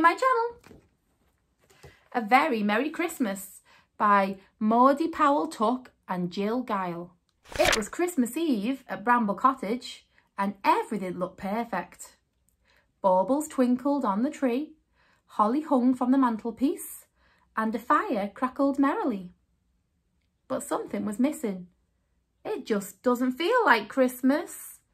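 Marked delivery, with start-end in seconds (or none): 2.1-21.7 story narration. A narrator's reading. Reading picture book aloud. 22.4-24.8 sighing. Acted. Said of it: "sighed Mister Mouse".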